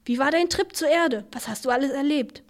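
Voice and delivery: high, eager curiosity; eager questions. Acted. Father eagerly quizzes Vincent about his trip. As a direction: pepper him with keen questions.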